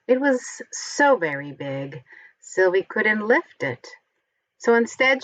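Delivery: lively picture-book storytelling voice; reading to children. A narrator's reading. Reading a Halloween picture book aloud to children, animated storytelling. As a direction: read it like a bedtime story for little ones.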